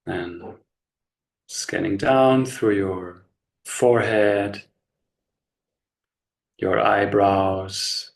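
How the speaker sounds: slow, unhurried body-scan guidance with long pauses; measured meditation voice, leaving space after each instruction; guided meditation. Real, not acted. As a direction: guide them gently into relaxation, phrase by phrase.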